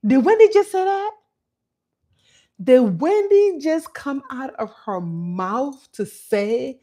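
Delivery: high, loud mock disbelief; incredulous. Reacting to Wendy ordering her mom out, incredulous. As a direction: act scandalized, pitching the question way up. Shocked reaction to daughter's words.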